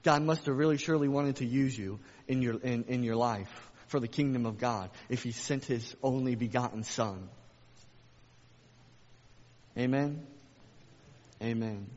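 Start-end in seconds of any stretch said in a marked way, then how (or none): none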